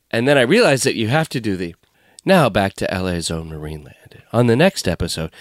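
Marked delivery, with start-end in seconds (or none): 2.3-5.3 low, smooth documentary narrator; hushed-style true crime host, without the emoting; true crime bedtime voice. Shown as a demonstration. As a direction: settle into a bedtime-story narrator read. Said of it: "a bedtime voice".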